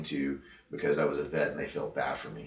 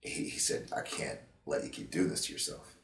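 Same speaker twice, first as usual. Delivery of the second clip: emotional; 5 dB quieter than usual. Real, not acted. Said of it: "I'm getting emotional thinking about it".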